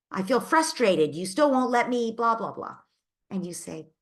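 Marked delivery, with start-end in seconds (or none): 0.1-2.8 louder and higher mock child complaint; frustrated child. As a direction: whine it like a cross kid. Parent voicing the angry child.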